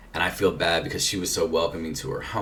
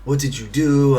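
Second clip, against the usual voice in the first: imitated angry crying; 7 semitones higher, 5 dB louder than usual. Melanie confronting him at the hotel after he vanished, angry. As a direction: act out her upset, raised-voice confrontation. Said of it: "she's crying".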